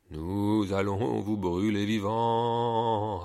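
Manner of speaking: slow, menacing monster threat; slow villainous monster voice; threatening monster. Acted. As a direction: relish the threat like a hungry beast. Monsters threaten to burn them.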